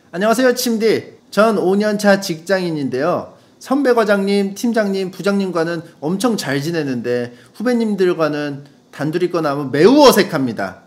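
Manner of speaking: lively radio letter reading; animated DJ reading voice; listener letter read-out. Acted.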